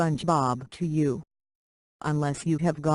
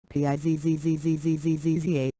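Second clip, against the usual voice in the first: silly spelling; faster than usual. Acted. Yelling pizza in the chat.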